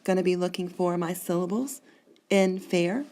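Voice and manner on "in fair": "In fair" as two measured beats; syllable-pair scansion. Shown as a demonstration. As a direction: sound out "In fair" as one foot. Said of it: "there's my two syllables".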